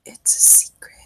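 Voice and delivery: secretive hushed whisper. Acted. Drugged patient keeping a present secret, whispering. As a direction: whisper it with no voice at all. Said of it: "He whispers".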